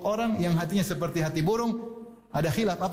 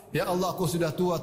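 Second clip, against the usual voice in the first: normal talking voice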